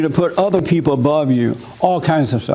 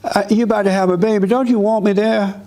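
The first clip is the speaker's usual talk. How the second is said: raised, coaxing mother; mama calling her pregnant daughter, lightly higher coaxing voice; mama on the phone; 4 semitones higher than usual. Retold or imitated. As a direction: talk the daughter into needing you. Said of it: "she called up daughter".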